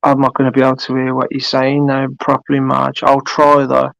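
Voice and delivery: crackly robotic phone line; robotic glitching voice over the call. Real, not acted. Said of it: "Here's the robot voice".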